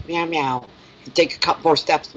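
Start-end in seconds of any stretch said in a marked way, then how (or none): 0.1-0.7 lightly voiced meow, a little softer; cat meow. Owner imitating her cat's backtalk, a light soft meow. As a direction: mimic the cat's talking back. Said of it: "and go".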